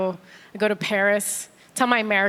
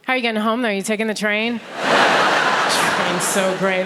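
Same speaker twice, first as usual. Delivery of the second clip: bored Londoner. Retold or imitated. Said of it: "and you're like".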